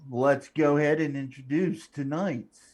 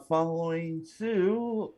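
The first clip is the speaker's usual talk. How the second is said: announcer voice; 3 semitones higher, 4 dB louder, much slower than usual. Acted. Introducing the next player.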